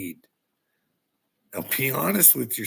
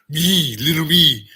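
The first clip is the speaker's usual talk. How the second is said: mocking taunt; 4 semitones higher, 12 dB louder than usual. Real, not acted.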